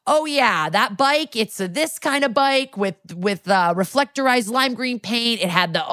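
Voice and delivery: a bike nerd excitedly spilling every detail; eager bike expert. Retold or imitated. Witness telling detectives about the bike, eager and high. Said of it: "And the guy goes".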